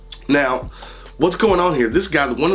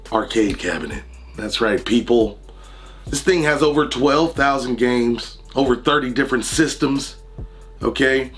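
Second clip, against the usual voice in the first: hoarse from being under the weather; sick, scratchy raspy voice. Real, not acted. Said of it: "excuse my raspy voice".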